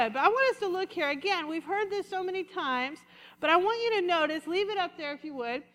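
normal talking voice

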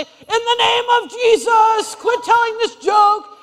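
the churchgoer rebukes a joke-teller in a hammed-up shout; mock preachy rebuke. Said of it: "You don't have to say".

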